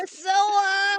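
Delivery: high, loud mock wail; shouted name. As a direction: bellow the name dramatically. Calling out Priscilla.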